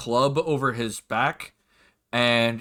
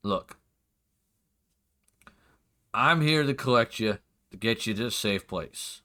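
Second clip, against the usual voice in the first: weary sigh. Acted. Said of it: "He'll sigh and just go".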